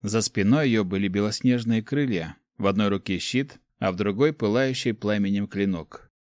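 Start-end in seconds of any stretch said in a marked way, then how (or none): none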